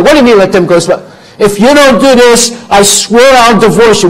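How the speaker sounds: high, loud threatening cry; wife yelling a divorce threat at husband; angry wife. Acted. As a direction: hurl the threat at him at full voice. Wife shouts back in quarrel.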